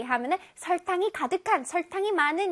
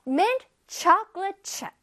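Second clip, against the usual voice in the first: "mint chocolate chip" slowly, CHOC punched higher; stress on CHOC; 5 semitones higher, much slower than usual. Shown as a demonstration. Teacher models for pupils where stress falls, stress on CHOC. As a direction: hit the first syllable of "chocolate". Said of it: "척 부분에서 강세가 들어가는".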